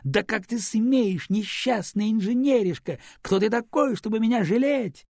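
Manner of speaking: high, slow, hammed-up indignant scolding; mock outrage. A narrator's reading. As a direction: pretend fury while pummelling him. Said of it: "изобразила возмущение".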